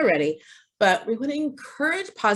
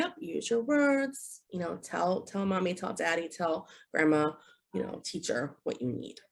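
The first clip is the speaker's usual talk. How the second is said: gentle prompt; 7 dB quieter than usual. Shown as a demonstration. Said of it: "you can say".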